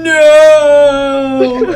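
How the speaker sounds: high, hammed-up cry of no; a playful wail, not meant; mock cry. Simo jokingly crying out at the fall. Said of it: "Simo's just going".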